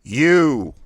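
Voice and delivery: "U" shouted high and loud, all air out; sharp thrust of U. Shown as a demonstration. Diaphragm exercise, coach blasting out U sharply. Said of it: "U is the thrust out quickly and sharply exercise".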